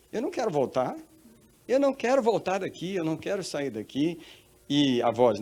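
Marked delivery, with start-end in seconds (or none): 0.1-4.2 high, protesting acted child; childlike refusal. Woman refusing to return from heaven, like a child protesting. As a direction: refuse like a kid, pitched up. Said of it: "foi igual uma criança mesmo".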